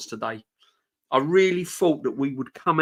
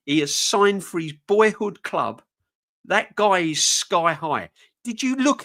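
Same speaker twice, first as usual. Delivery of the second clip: excited; 3 semitones higher, 5 dB louder than usual. Real, not acted. Excited rant about the new signing.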